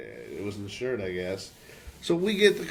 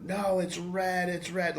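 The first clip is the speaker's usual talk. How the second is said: slow, higher-pitched mock irritation; getting pissed; 4 semitones higher, slower than usual. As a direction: insist slowly, imitating rising annoyance. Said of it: "she's getting pissed".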